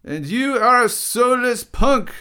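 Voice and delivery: high, loud thrown-back insult; heated retort. Acted. Condillac insults Derrida back, loud retort. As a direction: fire it back at full voice.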